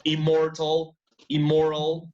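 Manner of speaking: immortal and immoral with only an M sound; double-M pronunciation. Shown as a demonstration. Teacher summing up examples, immortal and immoral with M alone. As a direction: say immortal, immoral as "im-mortal, im-moral", no N. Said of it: "in English we have a double M".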